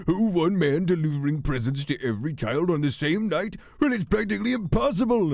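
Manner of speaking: loud, high-pitched cartoon villain outburst; Stinky Pete. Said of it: "The only Stinky Pete line from Mickey".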